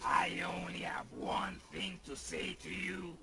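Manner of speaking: whispered warning; menacing whisper. Acted. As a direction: hiss a quiet threat. Whispered threat.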